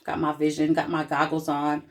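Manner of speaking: ordinary delivery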